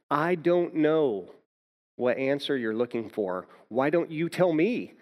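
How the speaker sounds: imitating being at the end of his rope; exasperated. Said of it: "finally, just kind of exasperated".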